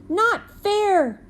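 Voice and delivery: high, loud holler of protest; a boy hollering at the unfairness. Acted. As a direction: holler it like an outraged kid. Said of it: "Daniel hollered".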